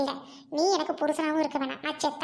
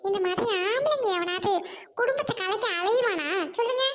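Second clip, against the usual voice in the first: angry retort; 5 semitones higher than usual. Acted. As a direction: fire it straight back at him. Wife defies husband in quarrel. (கோபமான எதிர்ப்பு)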